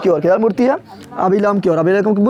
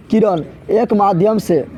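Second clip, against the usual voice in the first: drawn out, one word at a time; slow dictation; slower than usual. Shown as a demonstration. Teacher dictating the definition of refraction, slowly. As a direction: pace it for pupils taking notes. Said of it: "तो क्या बोलेगा?".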